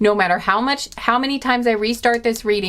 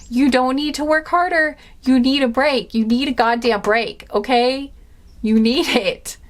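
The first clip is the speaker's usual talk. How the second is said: yelling; 3 semitones higher than usual. Real, not acted. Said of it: "Sorry I'm yelling at you".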